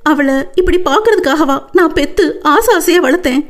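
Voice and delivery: high, mildly tearful lament; crying. Acted. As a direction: weep over her daughter. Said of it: "அவர் அழ".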